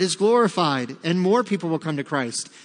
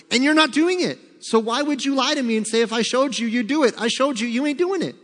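stern scolding God. Retold or imitated. God voiced scolding the excuse.

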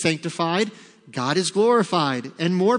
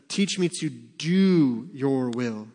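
slow solemn quote; 3 semitones lower, much slower than usual. Shown as a demonstration. Psalm quoted slowly.

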